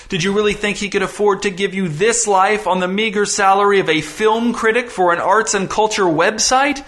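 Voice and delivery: high-pitched, swooping theatrical tirade; giddy, near ecstatic. Acted. Visitor berates girl over what her father sacrifices, ecstatic. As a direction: pile up the list with gloating, rising fervor. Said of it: "rapidly closing in on ecstatic".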